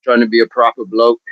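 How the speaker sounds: put-on Australian accent drifting British; attempted Australian accent. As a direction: try for Aussie, land near British. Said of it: "That sounded more British".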